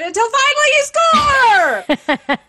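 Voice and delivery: sports announcer climax. Shown as a demonstration. Linguist showing how announcers call a goal, excited climbing shout. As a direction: build to a high, drawn-out goal shout. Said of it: "gets slightly higher in pitch".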